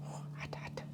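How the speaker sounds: whispering around a hot bite; breathy words through scalding food; mouth full of hot food. Real, not acted. Second bite still too hot.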